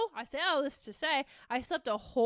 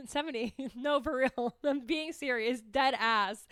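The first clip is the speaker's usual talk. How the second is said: insisting through giggles; laughing. Real, not acted. Insisting she is serious, laughing.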